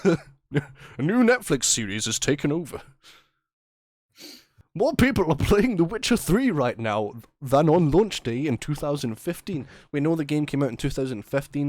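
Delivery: upbeat mock TV newsreader; news anchor voice. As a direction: announce it like the evening news. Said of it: "news anchor voice".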